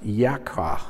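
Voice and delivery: Yakar said slowly as yah-kar; Hebrew word pronounced. Shown as a demonstration. Preacher reading a Hebrew word off his slide, slow careful Yakar. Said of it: "it's pronounced".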